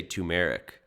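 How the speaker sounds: "turmeric" as "too-MER-ic"; personal pronunciation. Shown as a demonstration. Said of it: "I say it different".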